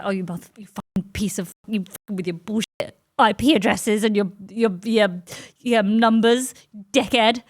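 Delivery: mock roasting. User insulting Chat GPT, mock roasting. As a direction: clumsily hurl insults, landing harder at the end. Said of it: "roasting? Like, I'm not very".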